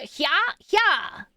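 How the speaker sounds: short sharp effort grunts; Link battle grunts. Retold or imitated. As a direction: grunt it like a sword swing. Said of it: "Link just does the".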